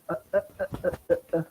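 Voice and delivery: repeated stuttering "uh, uh, uh", stuck on each one; demonstrated stammer. Shown as a demonstration. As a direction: show how the stammer blocks on "uh". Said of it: "my stammering is".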